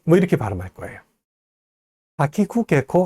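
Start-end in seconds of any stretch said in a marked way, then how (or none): 2.2-3.0 가키쿠개코 as Japanese kana, short even syllables; Japanese sound. Shown as a demonstration. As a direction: recite 가키쿠개코 with a Japanese feel. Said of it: "하면 일본어 같고요".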